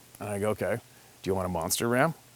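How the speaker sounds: ordinary talk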